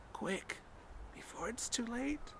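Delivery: quiet, tense and defeated; hopeless resignation. A narrator's reading. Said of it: "acquiring a softer quality, as of hopeless resignation".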